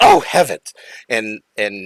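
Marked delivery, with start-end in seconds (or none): 0.0-0.7 put-on high, loud voice of a little old lady. Voicing a startled little old woman on a cart: little old woman voice. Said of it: "a little old woman ... and she goes".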